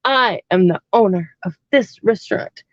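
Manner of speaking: lightly voiced pompous owner, weighty first word; mock his self-importance, spacing out the words; retold pompous owner. Restaurant owner announcing himself to his server, mildly mocked pomposity. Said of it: "And he said".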